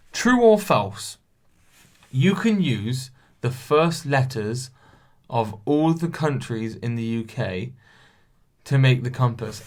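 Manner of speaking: slow, careful reread of the question. Shown as a demonstration. Rereading a confusing quiz question, slowly. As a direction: read it out word by word. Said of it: "I read the question".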